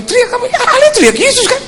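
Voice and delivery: high-pitched Ambonese back-and-forth; imitated Ambonese exchange. Two crash survivors compare shouts, high Ambonese voices. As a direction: play both sides high in Ambonese dialect.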